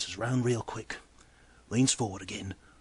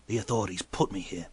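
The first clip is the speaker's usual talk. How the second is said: flat; 2 semitones lower than usual. Retold or imitated. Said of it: "he says flatly".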